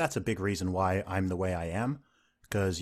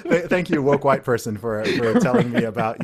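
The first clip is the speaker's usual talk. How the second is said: sarcastic thanks; 6 dB louder than usual. Retold or imitated. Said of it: "it's like".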